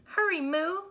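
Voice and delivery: high loud urgent cry. A narrator's reading. Minnie crying out to Moo. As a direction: hurry her along. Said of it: "cried Minnie".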